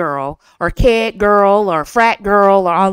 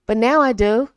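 a smile heard in the voice; speaking with a smile. Shown as a demonstration. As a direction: let the smile come through.

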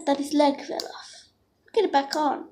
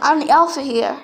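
whispered alpha; 2 semitones lower than usual. Pretend. Pack leader breaking up argument.

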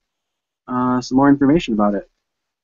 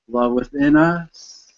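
measured meditation guide with long pauses; unhurried phrases, leaving space to breathe; guided meditation. Real, not acted. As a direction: gently lead listeners inward, phrase by phrase.

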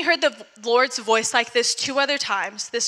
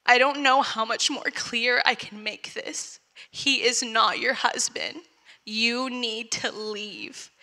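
gentle; 3 dB quieter, slower than usual. Retold or imitated. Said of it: "so gently as he does".

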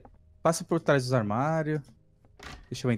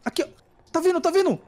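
panicked warning, high and loud; being chased; 4 dB louder, faster than usual. Real, not acted. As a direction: shout that it's coming, scared. Monster chasing them in game.

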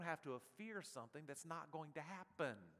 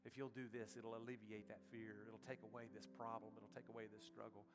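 tempting voice; 4 semitones lower, 5 dB quieter than usual. Pretend. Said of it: "Satan keeps putting in front of you saying".

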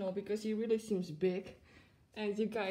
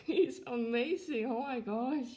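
delighted gushing; 5 semitones higher, 5 dB louder than usual. Real, not acted. Gushing over the new plush.

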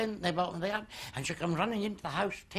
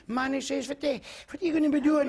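loud, high, fast laughing shout; mock shout; 8 semitones higher, 5 dB louder than usual. Friend shouting at the farmer about his money. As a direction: belt out the question through laughter.

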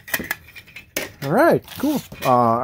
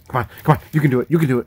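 cheering someone on; 4 dB louder, much faster than usual. Real, not acted. Urging child opening a box.

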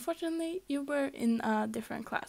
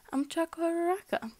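put-on cheerful girl voice; 6 semitones higher than usual. Cheerful girl introduces herself.

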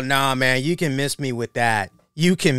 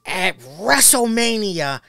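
imitating Skip Bayless; 3 semitones higher, 3 dB louder than usual. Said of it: "I'm just picturing him".

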